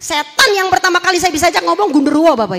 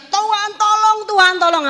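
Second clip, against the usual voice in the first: crying out; 7 semitones higher than usual. Retold or imitated. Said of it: "Semua orang berteriak".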